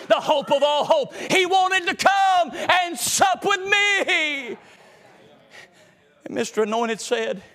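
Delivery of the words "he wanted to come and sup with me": high, slow, drawn-out preacher's cry; soaring slow proclamation; preaching climax. Acted. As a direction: lift it up high and slow for the church.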